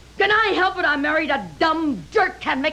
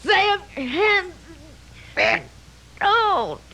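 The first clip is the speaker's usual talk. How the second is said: choking; 3 semitones higher, much slower than usual. Acted. Wife being choked.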